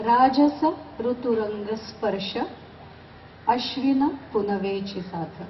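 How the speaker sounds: measured Marathi verse, pausing after each phrase; emphatic openings, falling cadences; poem recitation. Acted. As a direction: recite your poem to an audience, lifting key words.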